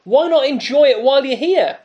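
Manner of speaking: lightly voiced devil talking someone into buying; tempting devil. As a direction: persuasive tempter, voice lifted. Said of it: "the devil says".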